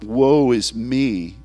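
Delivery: slow mock self-pity; mock lament. Tears that are not self-pity, slow mock lament. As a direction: drag it out in mock woe. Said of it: "tears that are not".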